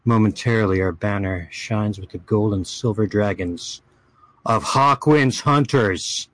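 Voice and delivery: dramatic fantasy chronicle reading; story narration. Acted. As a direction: read it like an epic saga. Reads a fantasy chronicle aloud.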